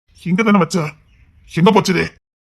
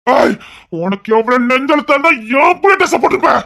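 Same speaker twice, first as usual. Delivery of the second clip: shouting, pitched higher in rage; angry shout; 6 semitones higher than usual. Acted. A furious man shouting at the woman in his son's clothes. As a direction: yell at her for wearing the dress.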